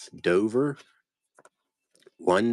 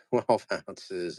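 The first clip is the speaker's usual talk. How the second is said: laughing. Real, not acted. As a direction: say it through a chuckle. Repeats weight laughing.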